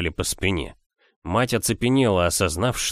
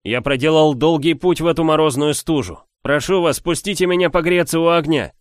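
pleading stranger; 7 semitones higher, 5 dB louder than usual. A narrator's reading. Stranger begging at the door.

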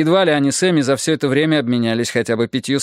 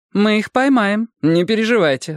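higher-pitched, offhand reassurance; dismissive; 9 semitones higher than usual. Acted. Detective waves off the husband's worry, dismissive. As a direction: brush the worry aside. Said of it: "отмахнулась Бонни".

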